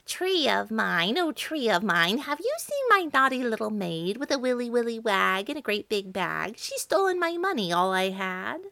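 mild witch voice calling from her broomstick. Acted. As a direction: call out to the tree like a searching old witch.

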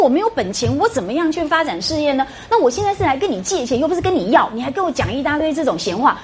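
a mild hint of angry nephew pushing back; lightly angry retort. Nephew protests to his uncle, mild mock indignation. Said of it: "他就非常生气".

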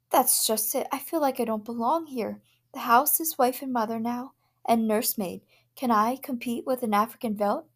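a hint of a worried young wife; lightly voiced anxious wife.

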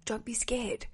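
calm a nervous listener, gently; gently reassuring. Shown as a demonstration.

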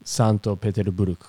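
Petersburgo as "Peteruburuku" in Japanese syllables; Japanese pronunciation. Shown as a demonstration. Co-host supplying the Japanese city name, Petersburgo in Japanese syllables. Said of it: "se utiliza la pronunciación rusa".

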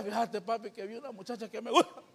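put-on soft, quick boy's confession; quiet son confiding. Son quietly confiding in his father about a girl. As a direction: shyly tell papi about a girl. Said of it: "Que le diga".

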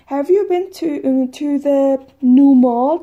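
high, loud, slow eager question; animated textbook question; lively model question. Shown as a demonstration. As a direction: ask it with energy for learners. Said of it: "repeating dialogue line".

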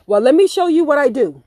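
mock hostess. Girl offering owner a tour.

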